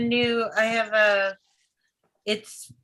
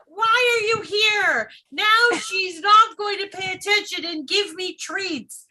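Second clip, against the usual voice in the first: cartoon dog; 6 semitones higher than usual. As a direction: play the pouty dog. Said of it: "she'd be like".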